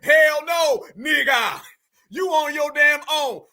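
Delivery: a flat, loud hell no; loud refusal. Retold or imitated. Host answering the pleas, loudly refusing. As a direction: shut them down hard. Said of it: "I'm saying".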